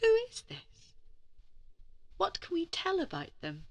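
put-on high breathy whisper, drawing the children in; a mysterious storyteller's whisper; hushed question. A narrator's reading. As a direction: whisper it like a secret to share.

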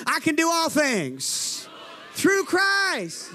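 slow, rising to a shout; preacher's shout building on THROUGH CHRIST; bold declaration. Shown as a demonstration. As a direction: declare it without timidity, drawn out. Redoes line to fix timidity.

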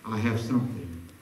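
very low, hushed murmur; low and soft, with a pause midway; small still voice. Acted. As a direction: imitate God's quiet prompting, softly. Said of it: "still whispering in that small little voice".

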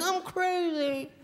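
high, very slow mock whimper; mock crying. Dreamer mock-cries about his own nightmare. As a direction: whine like you've lost it. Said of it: "you're crying like".

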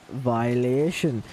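slow stretched mock verdict; drawn-out taunt. Streamer taunting an opponent after a near goal, slow mock verdict. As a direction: drag the word out as a taunt.

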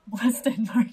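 loud, drawn-out mock toast; big, slow, hammed-up delivery; exaggerated repeat. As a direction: stretch it out loudly for comic effect. Repeats the line with laughing.

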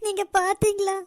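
tearful lament. Acted. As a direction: pour out grief to a lost husband. Widow laments to dead husband.

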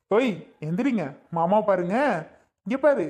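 put-on high, playful coaxing of a sleeping baby; cooing to a baby. Uncle waking his sister's baby, high sing-song cooing. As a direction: coax the little one awake in a lifted voice.

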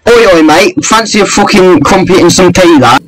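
cartoon British lad again; mock British accent. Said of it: "I find the accent quite favorable".

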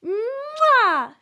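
smacking kiss into a giggle; kiss and laugh. Acted. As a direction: kiss then burst out laughing.

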